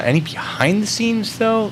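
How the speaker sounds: drawn-out high mock question; high silly voice. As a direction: stretch it up high and slow. Repeats chat question in silly voice.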